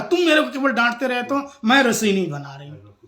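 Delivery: a touch of staged indignation; mock quarrel. Wife picks a pretend fight with husband before the guest, mock-cross. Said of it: "बड़ा तगड़ा लड़ाई हो गई".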